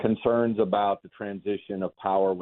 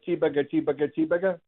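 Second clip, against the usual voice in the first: diner cook shout; 7 semitones higher, much faster than usual. Retold or imitated. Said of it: "Does he go".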